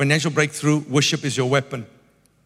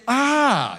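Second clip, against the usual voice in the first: drawn-out, higher falling "ahh"; acted "ah" of realization; 6 semitones higher than usual. Preacher acting out seeing further after one step, dawning "ah". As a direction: sigh a long "ah" as if it dawns on you.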